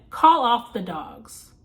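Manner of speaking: slow and deliberate, each word spaced; slow, deliberate quote. Retold or imitated. Lisa telling Dan to call off the dogs, slowly and deliberately. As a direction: spell out the order slowly. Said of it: "And then Lisa proceeds to say".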